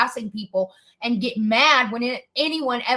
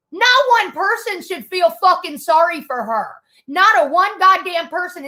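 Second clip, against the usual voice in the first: angry insistence; 3 semitones higher, 3 dB louder than usual. Real, not acted. Angry verdict on the woman.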